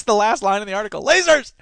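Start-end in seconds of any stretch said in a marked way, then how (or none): 1.0-1.5 loud, high "Lasers!"; mock excitement. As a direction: burst out as if gleefully thrilled. Repeats joke exclamation.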